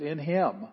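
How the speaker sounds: "in him" given clear stress; emphasis on IN HIM. Shown as a demonstration. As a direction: lean firmly on "in him". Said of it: "It's emphasized".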